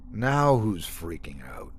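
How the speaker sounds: slow, dry jab; firm, mildly sarcastic. Acted. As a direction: tease her slowly and firmly. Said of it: "her tone firm and mildly sarcastic".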